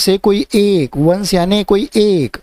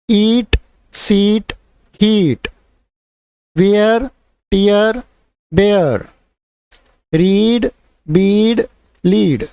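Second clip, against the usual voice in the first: reading list aloud; 3 semitones higher, much slower than usual. Shown as a demonstration. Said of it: "यही फिर से आपको activity करके बताता हूँ".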